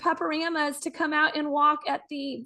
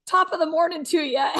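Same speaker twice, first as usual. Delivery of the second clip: put-on Irish accent; 3 dB louder than usual. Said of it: "the Irish pirate".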